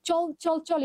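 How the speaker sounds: brisk, stirring "চল, চল, চল"; rousing. Shown as a demonstration. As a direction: fire off "চল, চল, চল" as a call to action. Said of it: "মানে উদ্দীপনামূলক কবিতা".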